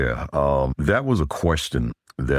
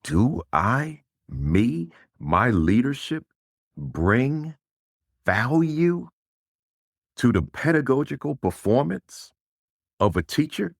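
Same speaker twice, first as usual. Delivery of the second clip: much higher, slow wondering with long pauses; leader's stunned self-questioning; 8 semitones higher, slower than usual. Retold or imitated. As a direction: ask it as if the thought just hit you. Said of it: "it really gets the leader thinking like".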